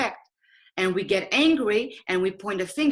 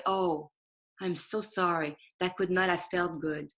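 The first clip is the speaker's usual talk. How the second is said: gentle apology; 3 semitones lower, 5 dB quieter than usual. Shown as a demonstration. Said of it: "able to say right away".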